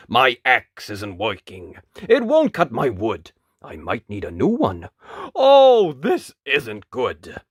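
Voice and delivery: woodcutter fretting over a broken axe; troubled woodcutter. A narrator's reading. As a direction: voice a bothered woodcutter, swelling on the groan.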